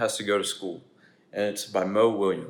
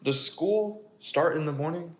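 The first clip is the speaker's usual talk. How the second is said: a slowed, lightly higher pigeon asking; slow pigeon question; 5 semitones higher, 3 dB louder, slower than usual. Acted. Pigeon asks the children about school, slow and lightly higher.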